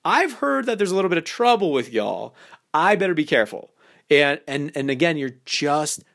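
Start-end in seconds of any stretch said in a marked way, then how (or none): 0.0-3.7 sly, playful, mock-wary tease; hint at mischief with a knowing laugh; a hammed-up uh-oh, as if she might be trouble; teasing innuendo. Shown as a demonstration. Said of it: "say something like".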